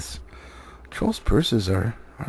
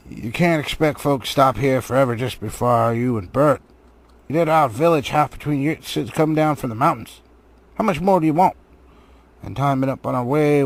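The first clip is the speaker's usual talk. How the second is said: complaining troll; 3 semitones higher, 3 dB louder than usual. A narrator's reading.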